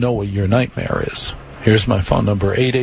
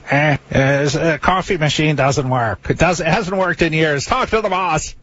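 raised Irish-bartender voice, climbing higher; 5 semitones higher than usual. Retold or imitated. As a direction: grumble like an old Irish barkeep brushing someone off. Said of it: "he sounds like an Irish bartender".

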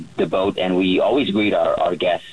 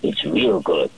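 imitated Russian fellow; 3 semitones lower, much slower than usual. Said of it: "the Russian fellow".

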